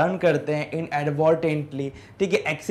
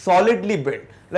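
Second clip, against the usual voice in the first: slow explaining; 3 dB louder, much slower than usual. Shown as a demonstration. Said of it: "sturdy का मतलब क्या होता है?".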